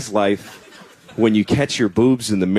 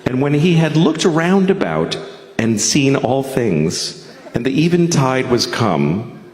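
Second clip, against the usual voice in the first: solemn Bible-reading voice, measured; scripture reading. Acted. Comic reading scripture to the crowd, solemn Bible voice. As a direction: read it like a preacher at the pulpit. Reads scripture in King James style.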